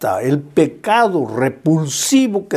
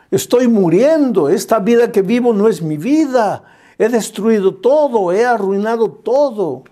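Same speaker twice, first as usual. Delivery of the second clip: hombre desesperado; 4 semitones higher than usual. Retold or imitated. Hombre desesperado citado en sermón.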